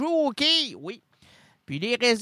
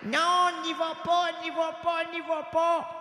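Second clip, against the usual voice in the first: mock crying plea; 9 semitones higher than usual. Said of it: "en criant".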